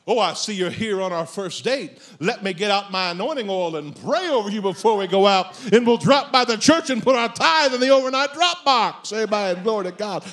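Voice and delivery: hammed-up zealous churchgoer; over-the-top pious enthusiasm; emphatic believer. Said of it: "More emphatic with your faith".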